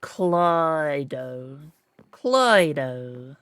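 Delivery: Clydo said as klye-doh; trying Clydo with a long I; mispronounced Cluedo. Shown as a demonstration. Guessing at the German name, Clydo. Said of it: "Is that right?".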